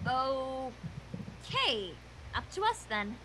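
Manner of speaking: low quiet resolve; resigned. Acted. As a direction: let it drop, quiet and low. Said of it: "Twilight said".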